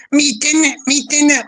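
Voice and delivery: put-on Liverpool accent. Reading a viewer's dinner message to the stream in Scouse. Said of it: "I'll see if I can do this Liverpool accent".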